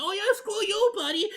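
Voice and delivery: high mock yell of screw you buddy. Fans mocking the edgelord back, loud high yell. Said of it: "they're like".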